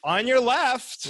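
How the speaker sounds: snooty warning. Retold or imitated. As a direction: stretch it out like a smug cyclist. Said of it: "It's always like".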